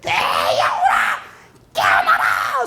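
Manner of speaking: slow, loud commanding call; loud preacher's command; bold proclamation. Shown as a demonstration. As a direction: proclaim it with force. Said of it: "소리냐?".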